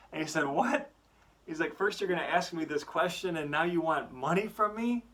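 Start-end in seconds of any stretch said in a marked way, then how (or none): 0.5-0.9 very high, louder, disbelieving "What?"; outraged what. Acted. Dad hearing his son ask for money, outraged. 1.8-5.1 higher, heated scolding; a father losing patience; indignant dad. Acted. Dad scolding his son for asking for money, indignant.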